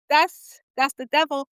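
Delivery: reacting to the neighbor's silence, spooked; spooked realization. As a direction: sell the devil line with a gasp. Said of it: "And I'm like".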